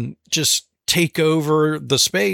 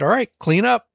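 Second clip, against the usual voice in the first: higher, chipper dad voice; lightly acted instruction to a small child; breezy mock parent voice; upbeat parent; 3 semitones higher than usual. Dad retells instructing his daughter.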